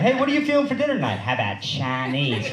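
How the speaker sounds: imitated Southern accent, stretching the last word; thick Southern accent. Cousins deciding on dinner, imitated thick Southern accent. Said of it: "like, a thick Southern accent say the word Chinese".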